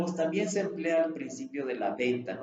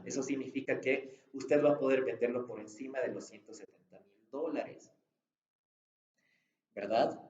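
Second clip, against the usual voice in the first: reasonable man tone. Shown as a demonstration. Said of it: "Eso es el hombre razonable".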